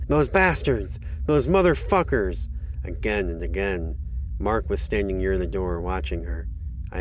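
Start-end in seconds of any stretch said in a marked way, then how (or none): 0.1-2.5 high, loud outraged scream. A narrator's reading. Woman ransacking her desk after a theft, screaming. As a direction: scream the curses in fury.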